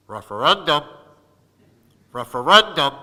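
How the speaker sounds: pointed, insistent repeated call; heckler's call. Retold or imitated. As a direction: needle the new councilman from behind. Heckler calls behind him in store.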